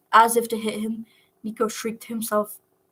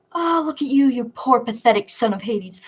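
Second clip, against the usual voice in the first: cruel taunt; 2 semitones higher, 6 dB louder than usual. Acted. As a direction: sneer down at him. Goddess taunting captive Nico.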